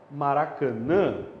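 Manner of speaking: "Maracanã" ending in a stressed nasal "ã"; "Maracanã" as maraca-NÃ, last vowel through the nose; nasal final vowel. Shown as a demonstration. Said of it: "O tio só marca nasalização".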